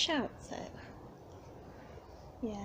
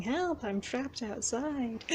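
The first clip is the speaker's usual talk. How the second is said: mock wailing cat; 3 semitones higher, slower than usual. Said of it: "wailing cat saying".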